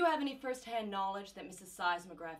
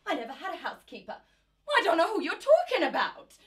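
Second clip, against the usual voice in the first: quick laugh rising to a loud high protest; nervous laughing denial; 7 semitones higher, 6 dB louder, faster than usual. Acted. Mother denying the housekeeper, laughing nervously. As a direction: laugh it off, then protest too hard.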